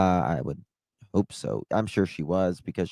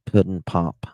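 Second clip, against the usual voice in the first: put-on old Southern. Shown as a demonstration. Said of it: "that's old Southern".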